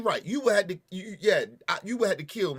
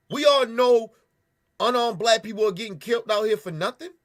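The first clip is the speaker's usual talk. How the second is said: loud angry rant; 2 semitones higher, 5 dB louder than usual. Real, not acted. Ranting at police in the video, loud and furious. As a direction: raise your voice in real outrage.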